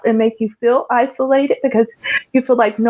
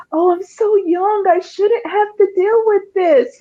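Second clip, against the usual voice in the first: a lightly voiced, higher plaintive younger self; self-pity; 9 semitones higher than usual. The speaker retelling how she felt when her joints locked, mild lament. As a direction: replay the old despair, a touch of whine. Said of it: "And I would be like".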